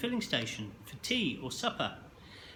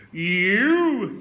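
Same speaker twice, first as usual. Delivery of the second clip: loud sudden accusing bark; teacher shouting at a pupil; 5 semitones higher, 9 dB louder than usual. A narrator's reading. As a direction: jab the word like a pointing finger. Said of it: "he shouted".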